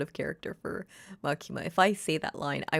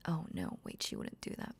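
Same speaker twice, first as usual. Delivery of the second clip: usual speaking voice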